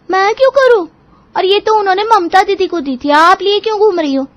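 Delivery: put-on high, sulky young wife's voice; young bahu talking back. Youngest bahu Seema snapping back at Rajni, high and defiant. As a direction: refuse the chore with a pert high voice.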